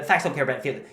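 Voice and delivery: put-on quick American accent on Facts don't care about feelings; a light Ben Shapiro, fast and American; Ben Shapiro impression. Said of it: "You just have to say it fast and have a little American accent".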